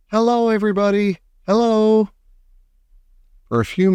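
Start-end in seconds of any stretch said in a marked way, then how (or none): 0.1-2.1 higher, fast cheerful call to the crowd below. A narrator's reading. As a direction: wave and shout hello down from the peach. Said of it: "he was laughing and waving and calling out".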